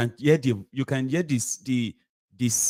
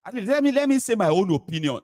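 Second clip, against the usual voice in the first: higher, whiny mimicry of a timid man; mock his feeble bid to speak; 10 semitones higher than usual. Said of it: "they want to try and be like".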